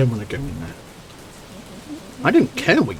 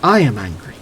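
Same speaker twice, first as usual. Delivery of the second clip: insisting angrily; 3 semitones lower, 4 dB louder than usual. Acted. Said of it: "you're not angry".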